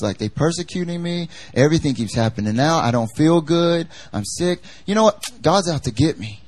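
lightly voiced whiny believer; mock complainer. Pastor mimicking a believer who says God is against him, mildly whiny. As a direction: grumble like a self-pitying churchgoer. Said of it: "None of us would stand up in here and say".

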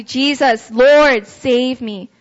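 emphatic plea, loud on the names; crying out. Acted. Preacher acts Peter's prayer to Jesus, crying out. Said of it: "I'm going to cry out to you".

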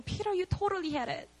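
gentle encouragement. Acted. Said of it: "Jesus was saying".

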